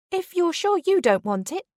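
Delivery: high, eager coworker; high whiny voice. A narrator's reading. Coworker angling for perfume.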